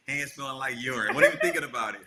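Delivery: chuckling as he speaks; laughing. Real, not acted. Husband recalls urine-soaked hands, laughing. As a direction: let the laugh carry it.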